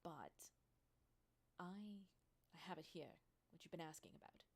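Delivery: hesitant, halting apology; a touch sheepish, feeling for the words; mildly apologetic. Acted. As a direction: stumble apologetically through it with pauses. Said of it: "kind of nods apologetically and says".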